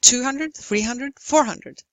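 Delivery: three even pulses with "hundred" tucked in quickly after each number; three stressed beats. Shown as a demonstration. Lecturer gives rhythm example, "Two", "three", "four" stressed in steady time. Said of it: "Again, three stressed syllables".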